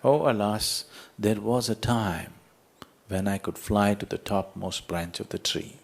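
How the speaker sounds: lightly acted wistful lament, a little subdued; mildly nostalgic. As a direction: sigh out "alas" with a touch of longing. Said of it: "very nostalgically said".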